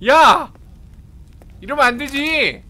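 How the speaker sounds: ordinary talk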